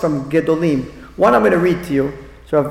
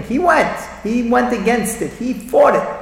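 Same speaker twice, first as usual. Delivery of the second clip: proud praise; 5 semitones higher than usual. Retold or imitated. Descendants praising their Zaydi.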